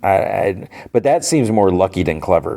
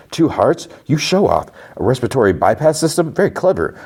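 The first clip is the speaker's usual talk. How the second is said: higher, swooping, admiring exclamations; mildly acted amazement; 5 semitones higher than usual. Nurse Mike scanning the Doctor's body, acted admiring amazement. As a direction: marvel at each new discovery, lightly acted.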